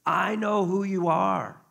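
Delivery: each word held out boldly; acted proclamation. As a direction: proclaim it with full conviction. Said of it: "His proclamation is this".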